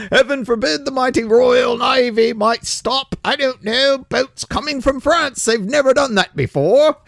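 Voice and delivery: a mocking English politician voice in a British accent; crappy British accent. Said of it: "Apologies for my crappy British accent".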